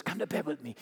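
a hushed tempting whisper-like offer; seductive invitation. Acted. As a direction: softly draw him in. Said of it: "grabs him by the coat and says".

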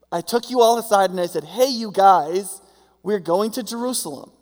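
a frustrated teacher reminding the class; a touch of an exasperated Jesus. Retold or imitated. Jesus scolding his disciples.

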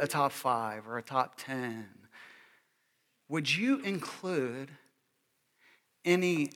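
soft reflective preaching, unhurried; gentle pastoral appeal. Acted. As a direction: draw the congregation inward quietly.

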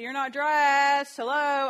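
loud, slow, high nagging call. Shown as a demonstration. Mom showing how not to nag her son, loud and slow. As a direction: drag it out like a nagging parent. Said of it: "I wouldn't nag".

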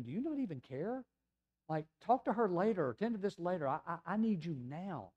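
impatient father's appeal; urgent pleading. Acted. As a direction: plead to be put first. Jairus pleading for attention now.

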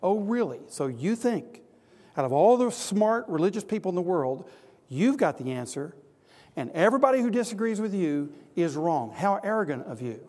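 mildly mocking, incredulous challenge; scornful objector. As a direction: scoff at the preacher's claim. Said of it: "The scorn that comes upon the gospel".

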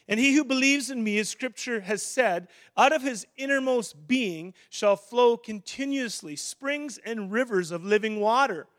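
crying out. Acted. Preacher quoting Jesus's promise of living water, proclaimed loudly. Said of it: "he cried out in a loud voice".

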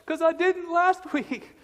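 put-on high child voice, worried; little boy. Son Ethan answering his dad, in a high worried child voice. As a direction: voice the scared five-year-old. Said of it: "why are you afraid of that".

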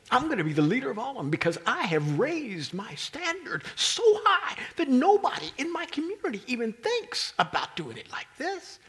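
loud, high boastful shout; preacher voicing Peter's bragging at full shout; proud shout. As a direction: crow it out like the top student. Peter imagined bragging loudly.

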